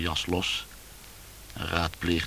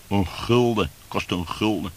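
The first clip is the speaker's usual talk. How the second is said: much louder, incredulous repeat; indignant exclamation; 4 semitones higher, 7 dB louder than usual. Retold or imitated. Man retelling the price of a drink, loud indignation. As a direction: hammer out the price in outrage.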